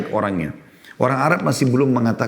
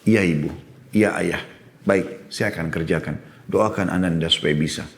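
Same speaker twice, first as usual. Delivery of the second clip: polite gentle reply; 3 semitones lower than usual. Retold or imitated.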